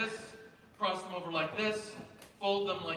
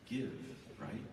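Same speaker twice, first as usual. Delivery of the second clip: ordinary talk, nothing marked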